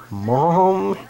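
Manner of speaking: high call of "Mom!"; calls out to her mother in the next room; yelling for mom. Retold or imitated. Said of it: "she yells".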